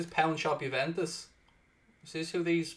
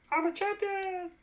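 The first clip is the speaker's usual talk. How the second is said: boast; 4 dB quieter than usual. Shown as a demonstration.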